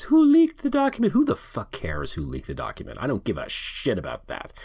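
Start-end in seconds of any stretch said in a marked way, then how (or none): 0.0-1.1 very high, louder mock squeal; mocking John Roberts. Host mimicking a justice fretting over the leak, high-pitched mockery. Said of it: "all John Roberts can talk about is".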